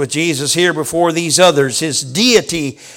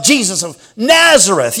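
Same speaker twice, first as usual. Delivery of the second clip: mock scorn; 3 dB louder than usual. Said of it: "they didn't say with the same scorn they had first said".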